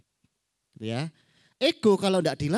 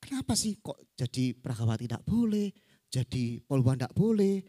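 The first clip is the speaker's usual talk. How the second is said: lower-pitched, musing question; puzzled child; 4 semitones lower than usual. Acted. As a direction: mull it over as a bewildered child. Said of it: "sang anak ini bingung". (anak bingung, bertanya pada diri sendiri)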